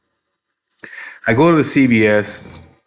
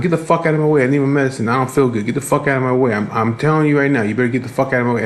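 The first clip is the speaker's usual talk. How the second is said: higher, run-on imitation of her ranting; mock irate rant; 3 semitones higher, faster than usual. Woman pushing toward the pharmacy for medicine, mock irate. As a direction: mimic a demanding customer's tirade.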